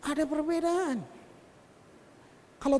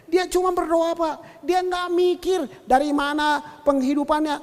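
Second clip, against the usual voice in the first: lightly acted driver, pitch a little raised; boastful taxi driver; 4 semitones higher than usual. Taxi driver praising his priest to passenger, imitated insistent boast. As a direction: imitate someone eagerly selling his own faith.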